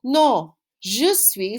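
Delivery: Oui, je suis and Non, je suis said very slowly; slow model answers. Shown as a demonstration. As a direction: spell out each answer slowly for learners. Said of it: "Tu es, right?".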